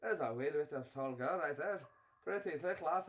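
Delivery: imitated Scottish lass's accent. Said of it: "I met some girls from Scotland".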